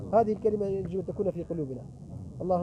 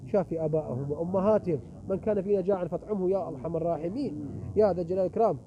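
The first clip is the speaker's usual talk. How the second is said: earnest closing prayer. Acted. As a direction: plead with God, rising at the end. Closing supplication.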